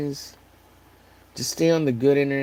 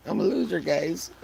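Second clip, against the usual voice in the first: mock whine; 6 semitones higher than usual. Jokey self-mockery.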